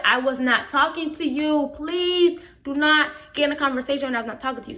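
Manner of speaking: firm, emphatic telling-off; with attitude. Retold or imitated. Student to coach butting in, with attitude. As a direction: shut the person out, word by word. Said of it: "I have a whole attitude".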